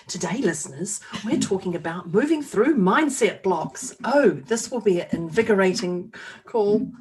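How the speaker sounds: lightly put-on kids' show presenter; swooping, over-keen presenter lilt, half in jest; child presenter. Host playing child presenter announcing today's topic, lightly hammed-up lilt. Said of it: "feel like a child presenter".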